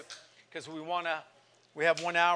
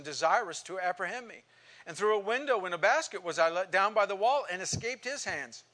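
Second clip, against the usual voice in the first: fervent Bible reading, building in force; scripture reading; 2 semitones higher than usual. Acted. Pastor reading Paul's letter to the class, fervent. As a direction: read Paul's hardships like a preacher pressing each line.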